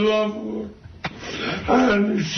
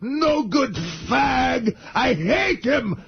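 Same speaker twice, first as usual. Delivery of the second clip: angry mock rant, fast at the start; ranting Iron Sheik. Sheik performing his ranting act for the hosts. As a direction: spit out the insults in a fake rage. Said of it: "can you do the crying Iron Sheik".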